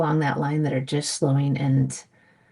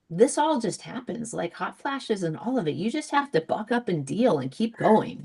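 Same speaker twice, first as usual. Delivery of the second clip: a hint of a brush-it-off mom, pitched up in swoops; lightly voiced dismissive mother; 4 semitones higher than usual. Mom to her daughters about menopause, lightly imitated dismissiveness. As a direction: imitate a mother waving it all away, sing-song. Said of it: "the mom was just like".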